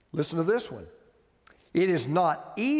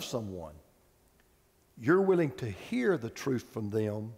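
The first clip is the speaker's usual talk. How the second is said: much lower and softer, heartfelt; earnest and quiet; 9 semitones lower, 4 dB quieter than usual. Real, not acted. Pastor confiding to the congregation, quiet and sincere. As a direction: lean in and speak softly from the heart.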